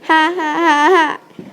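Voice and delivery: loud mock guffaw. Stepsister mocking the vacuum, loud fake guffaw. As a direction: bellow a hammed-up laugh. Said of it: "she guffawed".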